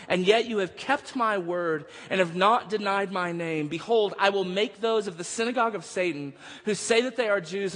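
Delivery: measured, declarative Bible reading; scripture reading. Real, not acted. Preacher reading Jesus's words to the church, solemn proclamation.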